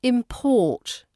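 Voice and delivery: imPORT, second syllable stressed. Shown as a demonstration. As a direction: hit PORT in "import", drawn out. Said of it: "But as a verb".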